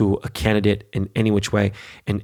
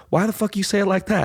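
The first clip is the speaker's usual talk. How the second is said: mock offended; 11 semitones higher than usual. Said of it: "And he's like".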